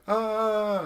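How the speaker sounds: high, drawn-out mock scream; half-hearted freak-out. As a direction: imitate kids faking panic. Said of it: "to freak out".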